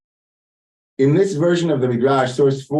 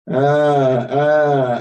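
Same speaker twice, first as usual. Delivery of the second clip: mock wailing. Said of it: "she cries three vichiot".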